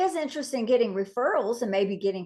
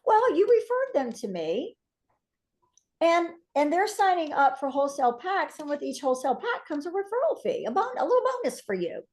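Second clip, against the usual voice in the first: cheery explanation; 4 semitones higher than usual. Retold or imitated. Explaining the fee to customer.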